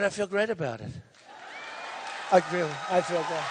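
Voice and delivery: low and satisfied; understated smug calm; low, calm mock answer. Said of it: "I said".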